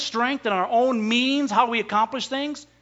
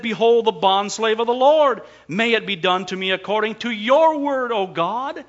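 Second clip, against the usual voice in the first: fervent prayer; 2 semitones higher, 5 dB louder than usual. Acted. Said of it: "she said".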